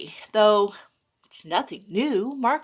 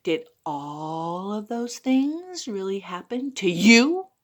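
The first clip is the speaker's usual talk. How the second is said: smiling; 3 semitones lower than usual. Acted. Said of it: "she smiled and she said".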